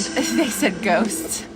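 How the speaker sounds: slow, breathy whispered aside; whispering. Real, not acted. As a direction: whisper it with a little laugh. Aside while talking about spirits.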